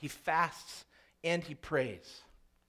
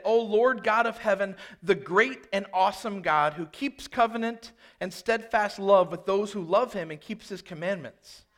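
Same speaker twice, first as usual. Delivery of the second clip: scripture reading; 2 semitones higher, 4 dB louder than usual. Shown as a demonstration. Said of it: "Listen to how he prays".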